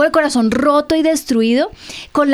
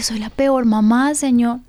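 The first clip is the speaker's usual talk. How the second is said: tearful prayer. Retold or imitated. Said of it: "me puse a llorar".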